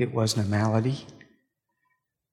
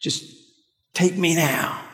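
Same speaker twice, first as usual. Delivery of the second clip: a touch of a weary, pleading lament; mildly complaining to God, worn out; understated despair, asking to die; despairing prophet; 2 semitones higher than usual. Retold or imitated. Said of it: "now he's saying".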